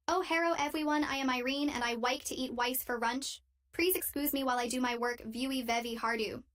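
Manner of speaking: mocking an Asian accent, tight and choppy, only lightly done; a coworker's cruel parody of a Korean colleague, choppy and tight, only slightly put on; high, tight, choppy mock accent. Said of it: "made her voice high and tight and choppy".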